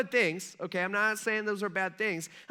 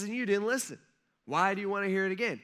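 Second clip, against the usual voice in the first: fed up; faster than usual. Retold or imitated. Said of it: "getting kind of fed up".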